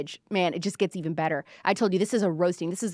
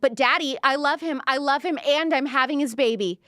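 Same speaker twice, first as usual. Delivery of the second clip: mock movie daughter; 4 semitones higher than usual. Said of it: "like in those movies".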